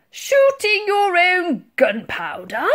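slow, high, loud disbelief; thundering. A narrator's reading. Admiral scorns the girl's plan, thundering. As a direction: thunder the question, stretching every word. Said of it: "thundered the Admiral".

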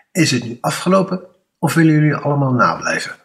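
snel, hoog en luid dreigen; boos uitvallen. Acted. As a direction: laat je geduld knappen. Meester springt boos overeind. (de meester dreigt de klas boos, snel en luid)

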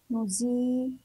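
نزيل in two parts, nuzii and lu; نزيل with long zii, then a break; sounded out. Shown as a demonstration. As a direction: pause in نزيل before the final lu. Teacher joins letters in two parts.

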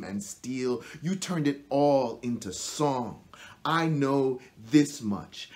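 measured verse addressed to someone absent; poetry recital. Acted. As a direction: recite it as a direct address, building in momentum. Recites a poem addressed to brother.

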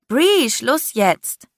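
slow, pointed warning; warning hiss. A narrator's reading. Vi to Bree, stopping her, warning. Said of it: "zischte ich warnend".

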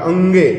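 अंगे said slowly with a clear nasal अं; sound demo. Shown as a demonstration. Teacher showing students the sound in होंगे, slow and clear. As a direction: draw out अंगे to show its sound. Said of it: "ध्वनि अंगे निकल रहा है".

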